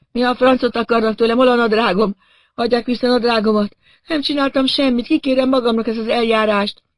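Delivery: high-pitched indignant wailing; Doug Hopkins. A narrator's reading. Man hanging in the tree without trousers, wailing. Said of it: "hogy Doug Hopkins jajgat odafent".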